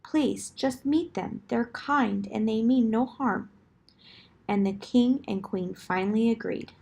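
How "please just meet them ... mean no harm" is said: pleading princess. Acted. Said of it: "begging and pleading".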